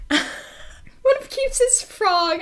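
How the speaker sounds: slow words squeezed out through laughter; can barely get it out for laughing; laughing so hard the words stretch. Real, not acted. Cracking up at frog.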